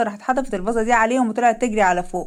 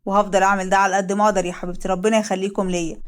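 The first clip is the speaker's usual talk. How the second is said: lightly lowered, gentle husband voice; a loving husband, voiced a bit lower; husband Leil; 3 semitones lower than usual. Leil answers his wife.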